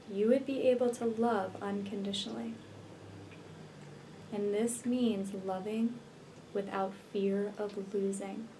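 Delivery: unhurried meditation voice with long pauses; guided meditation. Real, not acted. Healer leading listeners to visualize twin flame union, guided meditation. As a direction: guide the listener gently into relaxation, leaving space between phrases.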